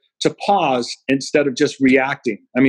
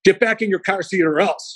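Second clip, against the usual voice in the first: stern threat; 5 semitones higher than usual. Retold or imitated. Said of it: "I'm pretty furious".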